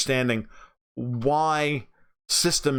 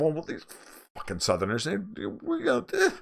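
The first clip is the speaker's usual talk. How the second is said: arrogant attitude; 4 semitones higher, 4 dB quieter than usual. Retold or imitated. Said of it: "with an attitude of".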